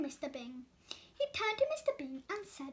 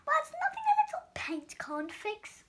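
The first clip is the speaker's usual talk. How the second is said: high whispered joke; whispered aside; 10 semitones higher, 3 dB louder than usual. Acted. Donut Arnie whispers a cheeky aside about the plate. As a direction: whisper it behind your hand.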